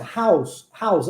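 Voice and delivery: how's said with a buzzing z at the end; pronunciation demo. Shown as a demonstration. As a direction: model how's slowly. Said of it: "Olha a pronúncia".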